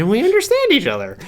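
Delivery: high, strained villain voice; Joker voice. Retold or imitated. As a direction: play it like a gleeful comic villain. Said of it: "that's like Batman and the Joker".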